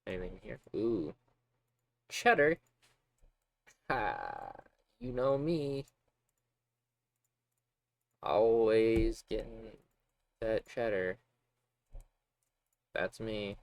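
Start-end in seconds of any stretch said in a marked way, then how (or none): 2.1-13.6 hammed-up boast. Hammy cheese boast.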